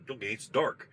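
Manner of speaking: "dark" lifted in a questioning rise; pushing buddy echoing. Retold or imitated.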